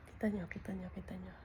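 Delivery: breathy hushed whisper so the cat stays. Real, not acted. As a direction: whisper it, don't wake her. Showing sleeping cat, not startling it. (pabulong na bulong)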